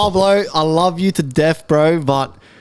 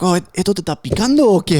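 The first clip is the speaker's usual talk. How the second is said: imitating dad in Spanish; faster than usual. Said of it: "he's like, in Spanish".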